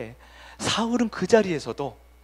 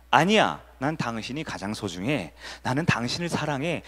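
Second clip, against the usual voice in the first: model tender answer; 3 semitones lower than usual. Shown as a demonstration. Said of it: "모범 답안은 뭐냐면".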